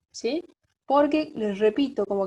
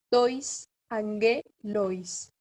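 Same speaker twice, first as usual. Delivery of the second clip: tois angelois very slow, in separate syllables, stress on GE; accent moved along; much slower than usual. Shown as a demonstration. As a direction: dictate angelois as an-GE-lois. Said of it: "corre un lugar el acento".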